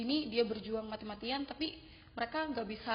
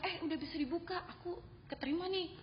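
higher-pitched retold announcement, a touch excited; friend's acceptance announcement; 7 semitones higher than usual. Friend tells the speaker she got accepted, retold excitedly. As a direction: imitate a friend breaking news, pitched up. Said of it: "temen aku bilang".

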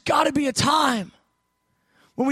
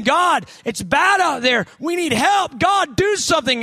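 desperate plea; 4 semitones higher, 4 dB louder than usual. Acted. Prophet begging God for help.

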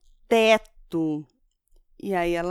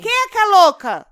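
shrieking much higher and louder; yelled; 11 semitones higher, 10 dB louder than usual. Acted. Mother yelling at her child for calling her crazy, shouting. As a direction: scream it at the kid, outraged. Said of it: "Para de gritar".

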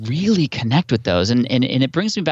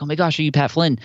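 excited fan; 6 semitones higher than usual. Retold or imitated. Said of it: "really happy".

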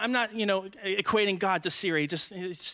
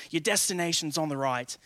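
imitated Australian navigation announcement; lightly put-on Australian assistant voice; Australian Siri; 4 semitones lower than usual. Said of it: "Siri in an Australian voice".

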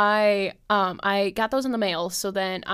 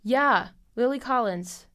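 "yeah, Lily Collins" slower, falling and settled; confirmed; 3 semitones higher, slower than usual. Real, not acted. Having looked up the actress's name, confirming it. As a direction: state "Lily Collins" with relief. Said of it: "That's what I thought".

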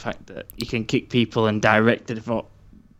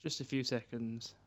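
quiet voice loud hiss; 17 dB quieter than usual. Real, not acted. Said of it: "You're so quiet".

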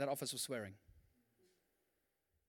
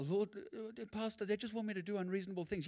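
mock whine; 3 semitones higher, 6 dB quieter than usual. Mock complaint to pastor.

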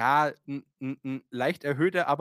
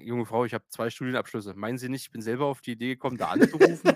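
sarcastic retort; 3 semitones lower than usual. Retold or imitated. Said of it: "ganz kurz davor zu fragen oder zu sagen".

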